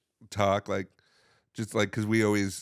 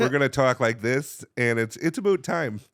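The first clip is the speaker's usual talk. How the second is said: lightly voiced northern American accent; a hint of the American North. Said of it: "up in the North".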